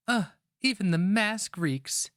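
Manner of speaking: put-on high, disgusted young woman's voice. A narrator's reading. Young woman tending the wounded warrior, high and disgusted. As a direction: wrinkle your nose at the stink.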